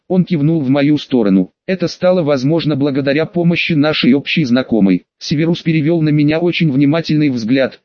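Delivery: plain reading voice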